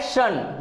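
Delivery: शन said as "shun", the tion ending; teacher demo of शन as "shun". Shown as a demonstration. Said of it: "टीआईओएन का pronunciation होता है".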